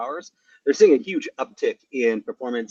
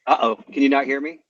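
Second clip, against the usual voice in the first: tin can sound; 6 dB louder than usual. Real, not acted. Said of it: "You sound like you're in a tin can or something".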